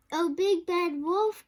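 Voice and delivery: high, loud call; crying out. A narrator's reading. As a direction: call out to the wolf. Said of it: "cried Missus Duck".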